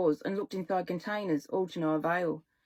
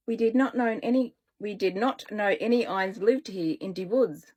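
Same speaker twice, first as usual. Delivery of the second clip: put-on German accent. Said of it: "has an accent".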